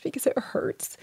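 hushed, painful whisper. Real, not acted. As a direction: let the words fade to a whisper. Admitting pain about late husband.

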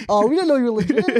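lightly put-on British guard; British accent. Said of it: "They dab me up".

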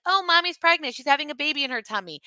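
put-on high, quick child's chatter; little girl voice. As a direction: blurt the secret like an excited little girl. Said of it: "Sloan was like".

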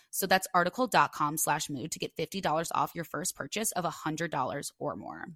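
scripted podcast promo read. Real, not acted. Host giving listeners a discount code, ad read. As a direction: deliver the offer clearly to listeners. Reads the sponsor offer.

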